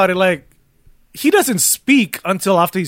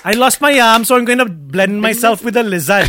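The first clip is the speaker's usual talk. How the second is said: put-on Welsh accent; 4 semitones higher, 3 dB louder than usual. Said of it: "Welsh accent".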